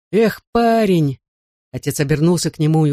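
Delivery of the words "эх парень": indulgent father. A narrator's reading. Father answers his pleading son.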